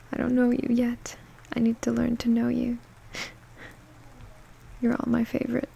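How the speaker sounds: soft unvoiced whisper; ASMR style whisper. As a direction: breathe the words without voice. Whispered comment reading.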